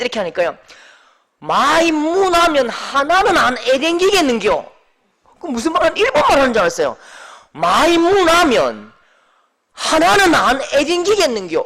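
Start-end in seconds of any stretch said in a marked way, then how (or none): 1.4-4.7 slow, louder Busan dialect grumble; irritated deacon answering in Busan dialect. Retold or imitated. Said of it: "이 부산 말인데요". 7.5-11.6 slow, louder Busan dialect grumble; irritated deacon answering in Busan dialect. Retold or imitated. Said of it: "이 부산 말인데요".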